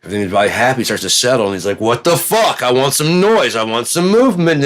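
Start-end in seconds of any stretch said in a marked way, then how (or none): 1.8-4.6 bored God. Retold or imitated. God bored, demanding noise.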